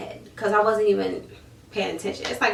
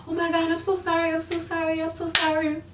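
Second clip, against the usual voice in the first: mocking apology; 8 semitones higher than usual. Imitating company's apology.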